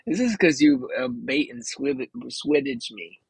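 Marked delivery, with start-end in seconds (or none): 1.1-3.2 slurring with a numb tongue. Real, not acted. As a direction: trip over words with a numb mouth. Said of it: "I can't feel my tongue".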